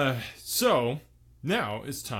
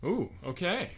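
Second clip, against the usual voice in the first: trying the ooh; 5 semitones higher than usual. Shown as a demonstration. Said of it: "it's the oohs".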